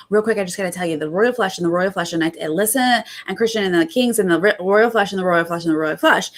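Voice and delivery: babbling. Retold or imitated. Tiffany babbling royal flush repeatedly.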